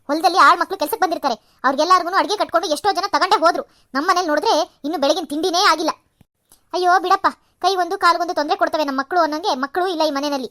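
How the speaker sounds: loud nagging rant at the daughter-in-law; angry scolding. Acted. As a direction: scold her loudly for being late. Mother-in-law scolds late breakfast. (ಸೊಸೆಯನ್ನು ಜೋರಾಗಿ ಗದರಿಸುವ ಅತ್ತೆ)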